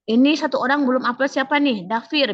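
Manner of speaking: mock-stern call for the one who hasn't uploaded; teacher naming a student who hasn't uploaded, mock-stern; scolding homeroom teacher.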